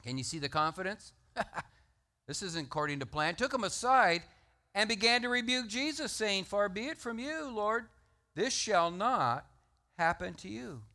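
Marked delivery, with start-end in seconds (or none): 3.4-10.8 high, loud emphatic reading; forceful reading. Acted. Preacher reading Peter rebuking Jesus, high and loud. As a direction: read the rebuke with rising force.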